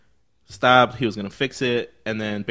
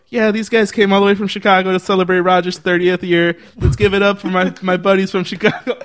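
mock hype announcer; 7 semitones higher, 5 dB louder than usual. Bandleader hyping the crowd.

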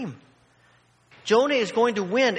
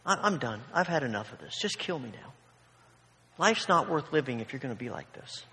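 low, soft, resigned complaint; fed-up Jonah; 3 semitones lower, 5 dB quieter than usual. Retold or imitated. Jonah telling God he is done, fed up. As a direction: give up and sulk at God. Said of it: "In fact, he says".

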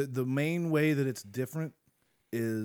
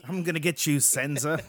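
louder, higher cartoon villain threat; mustache twirling villain; 4 semitones higher, 4 dB louder than usual. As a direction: ham up a dastardly cartoon villain. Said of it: "Look at me being all dastardly".

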